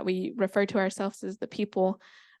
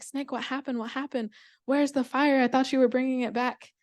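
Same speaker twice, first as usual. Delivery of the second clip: mildly eager, higher-pitched questions; anxious questioning; 4 semitones higher than usual. Acted. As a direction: press for news, pitch lifted a little. Animals crowd round returning snake.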